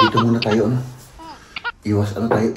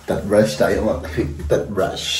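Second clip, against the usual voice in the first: while gargling; 5 dB quieter, slower than usual. Real, not acted. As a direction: mouth full of water, gargling. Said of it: "Magmumumog lang tayo". (nagmumumog habang nagsasalita)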